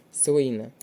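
Слина stressed on СЛИ; stress on first syllable. Shown as a demonstration. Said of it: "на перший склад".

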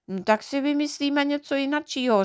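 výrazně vyšší dívčí hlas; nadšeně navrhni jako děvčátko; živá Knoflenka. A narrator's reading. (Knoflenka vesele navrhuje, vysokým hlasem)

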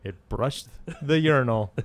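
lightly imitated sitcom comedian; a hint of a comedian impression on the punchline; Jerry Seinfeld. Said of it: "That's a good Jerry and Seinfeld impression".

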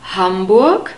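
Hamburg with the weight on Ham; stress on first syllable. Shown as a demonstration. Teacher models German word stress, Hamburg stressed on Ham. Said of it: "The stress is on the first syllable".

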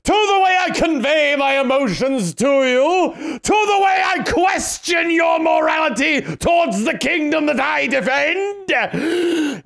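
hammed-up, slow noble knight; pompous knight. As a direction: declaim like an offended knight. Mocking game knight speech.

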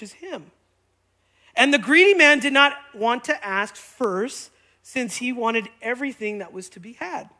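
careful, drawn-out parable reading; slow reading. Real, not acted. Preacher reading a confusing parable aloud, slow and deliberate. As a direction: take it slowly, phrase by phrase. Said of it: "I'm gonna read it slow".

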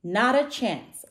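slow, loud sulky refusal; drawn-out storybook sulk. A narrator's reading. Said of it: "sulked Tiny".

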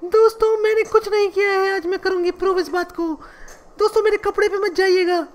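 lightly put-on dramatic actress voice; Kangana Ranaut impression. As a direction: play a wronged film star pleading her case. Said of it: "मेरा नाम है कंगना रनावत".

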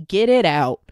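loud mock yell of GET it out; shouted get it out. To someone, urging them: shouted command. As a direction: yell it out hard. Repeated quote, louder second take.

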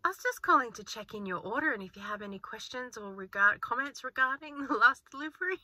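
lightly put-on customer-call manner; telephone voice. Shown as a demonstration. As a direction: recite it like a routine sales call. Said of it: "Do you wanna hear my telephone voice?".

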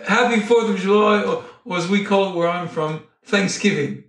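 badly faked British pilot announcement; mock British accent, laughter creeping in; shitty British accent. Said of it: "that's my shitty British accent".

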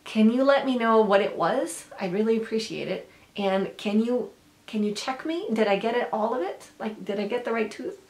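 eager run of rising questions; eager asking. Acted. Corrected person asking a helper about the spinach, eager and appreciative. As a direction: ask keenly, wanting to be checked. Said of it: "you actually want to be eager".

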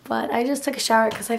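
hoarse, nearly gone voice; talking through a worn-out throat; lost voice. Real, not acted. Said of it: "my voice sounds so funny".

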